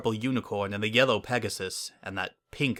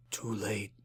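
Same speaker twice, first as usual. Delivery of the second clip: mumbled; 9 dB quieter than usual. A narrator's reading. Sombra answering the mayor's hope, soft weary mumble. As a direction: barely let it out. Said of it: "Sombra mumbled".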